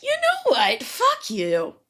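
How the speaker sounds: high-pitched then dropping, mock yell; high outraged retort, only half yelled; retold mock scream. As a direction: mimic hollering out the window without full volume. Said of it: "So I scream out the window".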